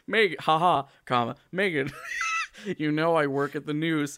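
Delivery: amused anchor voice, laughing; laughing through the line. Retold or imitated. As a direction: read it while cracking up. Voicing Brian Williams reading story.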